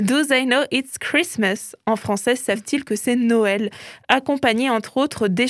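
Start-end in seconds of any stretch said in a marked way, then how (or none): 0.1-1.7 slow, self-mocking French take on an English accent. Shown as a demonstration. Radio host shows off his English accent on the song title, hammed-up English accent. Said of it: "mon magnifique accent anglais va ressortir".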